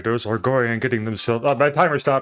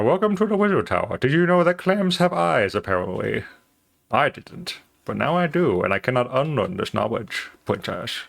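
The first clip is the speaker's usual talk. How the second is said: princess voice. Acted. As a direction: greet guests like a cartoon princess. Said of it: "I don't know why I'm still doing this voice".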